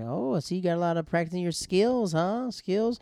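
high, mocking teen-girl jab; mock her like a catty schoolmate. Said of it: "throws a shot at her and says".

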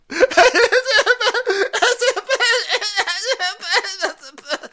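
loud high cackling laugh; big high laugh. Real, not acted. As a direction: burst out in a long shrieking laugh. Huge laugh after bit.

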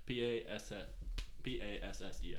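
spelling it out. Shown as a demonstration. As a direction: read out each letter one at a time. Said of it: "How you spell that?".

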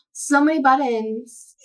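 put-on slow ditzy Valley Girl voice; airheaded Valley Girl gushing. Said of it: "using my Valley Girl voice".

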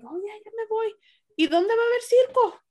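mock her outfit like a circus act; mocking mom. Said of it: "and you're like".

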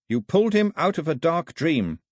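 a hint of a respectful young woman; Carlet's voice. A narrator's reading. Carlet relays the old woman's words, respectfully.

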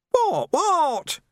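high, sharp defiant What. A narrator's reading. Nobby, caught out, snapping back defiantly at the staring men. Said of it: "he said defiantly".

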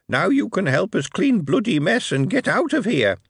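high, pinched goblin voice, mock-wounded then fierce; a sly goblin scolding Moist through his rage. A narrator's reading. Goblin lecturing Moist on his rage, high goblin voice. Goblin Of the Twilight the Darkness speaks.

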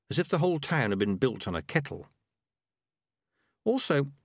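usual speaking voice

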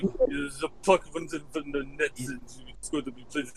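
put-on deep, slow, thick Czech-style hockey accent; mock heavily accented player interview; Pastrnak. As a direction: mumble it in a strong, deep foreign accent. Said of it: "such a deep voice, and he has such a strong accent".

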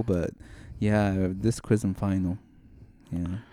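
lightly voiced, subdued monotone student.

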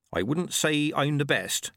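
put-on cheerful, high old countrywoman; chirpy village midwife; old witch voice. Nanny Ogg modest.

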